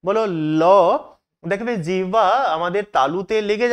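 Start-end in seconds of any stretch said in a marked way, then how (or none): 0.6-0.6 "ল" said clearly and drawn out; clear L sound. Shown as a demonstration. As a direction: sound out "ল" carefully for learners. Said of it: "একটু ভালোভাবে".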